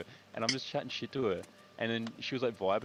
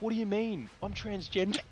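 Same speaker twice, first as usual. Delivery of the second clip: higher, bold declaration; confident claim; 10 semitones higher than usual. Retold or imitated. Caught by the bouncer in the girls' toilets, higher bold claim. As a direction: announce it with total confidence. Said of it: "I said it so confidently".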